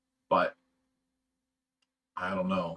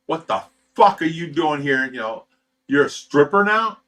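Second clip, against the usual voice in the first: loud, rising furious demand; yelling at his fiancée in the club; angry confrontation; 6 dB louder than usual. Retold or imitated. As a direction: tear into her.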